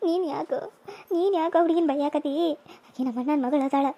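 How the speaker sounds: put-on frail old mother. Old mother pleading with son not to hit the girl, frail. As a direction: gently plead with her son.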